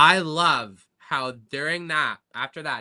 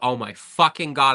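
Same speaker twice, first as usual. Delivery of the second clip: acted scream, louder; 6 dB louder than usual. Retelling hearing the organ drop at a live show: retelling a scream. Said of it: "I screamed".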